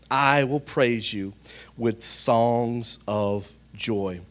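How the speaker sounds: slow, measured psalm reading; solemn scripture reading. Acted. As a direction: pray the psalm aloud, dwelling on each phrase. Reads a psalm aloud.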